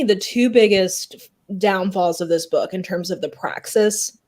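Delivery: slowed, throat catching on spit; choking on spit. Real, not acted. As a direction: push through a throat full of spit. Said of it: "I'm choking on my own spit".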